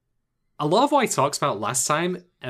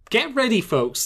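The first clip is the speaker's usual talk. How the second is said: hyped-up; 9 semitones higher than usual. Real, not acted. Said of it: "This is gonna get loud".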